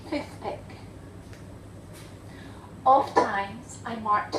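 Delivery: understated, measured poetry reading; poem recitation. Acted. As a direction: read the verse deliberately, a pause after each phrase. Reads poem for father.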